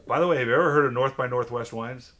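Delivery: loud, laughing imitation of an English accent; mock English accent. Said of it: "Heavy English accent".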